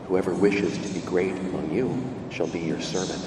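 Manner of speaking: ordinary delivery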